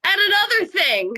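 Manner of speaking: high-pitched mock telling-off; playful impression of someone on a tirade; imitated indignant scolding. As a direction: launch into a hammed-up rant. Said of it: "Jessica was like".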